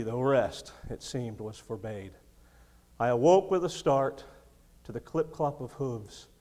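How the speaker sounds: a lightly voiced poem reading; preacher reading his own poem to the church; poem recital. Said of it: "wrote this poem in college I want to share with you".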